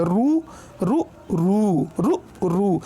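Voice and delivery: रु said short, then रु drawn out long. Shown as a demonstration. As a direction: contrast a quick रु with a held रु. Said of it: "इसको जल्दी से पढ़ेंगे, इसको कम से देर से पढ़ेंगे". (छोटा और बड़ा रु)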